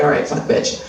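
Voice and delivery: mock saleswoman dropped low and blunt. Ad voice talking down to women in their forties, low and blunt. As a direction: rattle off creams like a tired pushy rep. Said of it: "they're like".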